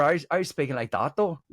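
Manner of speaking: lightly put-on Northern Irish accent. Shown as a demonstration. Reminding friend which accent was used, Northern Irish. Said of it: "I was doing Northern Irish though".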